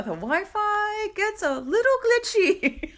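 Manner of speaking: high-pitched, laughing through the words; loud, high giggle overtaking the sentence. Real, not acted. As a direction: break up laughing as you say it. Joking about glitchy home Wi-Fi.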